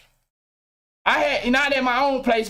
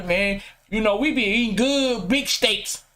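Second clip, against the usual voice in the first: lower, smug flexing voice; a low-voiced show-off bragging about steaks; mock steak bragger; 4 semitones lower than usual. Mocking posers on the internet in a low smug voice. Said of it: "Nigga probably ate a steak once".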